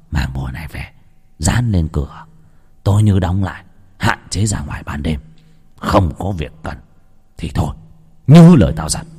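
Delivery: a sorcerer handing over charms with grave warnings; old shaman. Acted. Shaman instructing Đào on the charms, low grave voice.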